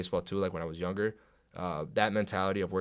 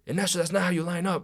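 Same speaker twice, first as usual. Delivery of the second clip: higher-pitched retold reprimand; imitated coach's scolding; 7 semitones higher than usual. Head coach scolds lineman by name, imitated scolding. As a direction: mimic a coach correcting a player.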